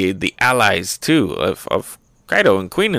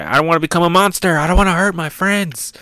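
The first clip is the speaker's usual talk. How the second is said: high-pitched, hammed-up pleading; mock desperate plea; 8 semitones higher than usual. Infected Omasa pleading with his boss, mock desperate plea. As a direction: cry it out like a cartoon victim.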